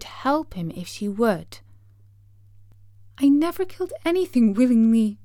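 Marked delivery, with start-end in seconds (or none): 3.2-5.2 sobbed. Acted. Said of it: "she sobbed".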